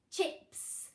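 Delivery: Chips with a crisp ch; stressed ch. Shown as a demonstration. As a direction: sound out the ch in Chips. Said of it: "Which digraph can we hear".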